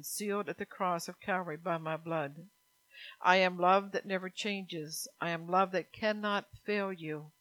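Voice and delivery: earnest, measured preaching as God; voicing God's words. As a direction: speak as a loving Father calling his child home.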